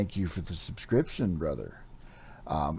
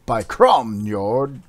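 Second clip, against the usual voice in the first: gasping barbarian; 4 semitones higher, 11 dB louder, much slower than usual. Acted. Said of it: "grasped he".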